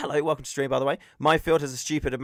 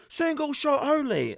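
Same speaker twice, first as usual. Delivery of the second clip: mock marshal yell, slow; retold shout; 12 semitones higher, slower than usual. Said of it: "they shout".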